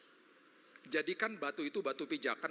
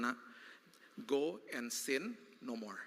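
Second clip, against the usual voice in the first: gentle; 3 semitones lower, much slower than usual. Retold or imitated. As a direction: let him up gently. Jesus speaking gently to sinner.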